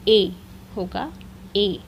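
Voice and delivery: ए said as a clear closed ay; accent aigu sound. Shown as a demonstration. Teacher models é sound for the class. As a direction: say ए crisply, like é. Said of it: "pronunciation".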